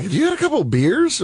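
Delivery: high mock voice. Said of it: "Nate's like".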